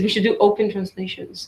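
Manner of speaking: said through a laugh; half-joking, laughing as she says it. Real, not acted. Panelist jokes about open translations, laughing.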